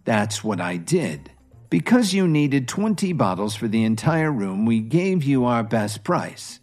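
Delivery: calm. Acted. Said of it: "smiled and said calmly".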